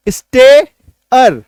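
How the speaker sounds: स्टे, pause, अर; split into syllables. Shown as a demonstration. Teacher showing a two-syllable word, split into syllables. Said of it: "है ना, दो sound".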